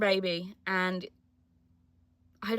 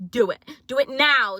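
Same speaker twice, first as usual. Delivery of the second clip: mock urging; 4 semitones higher, 7 dB louder than usual. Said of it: "No, I'm joking".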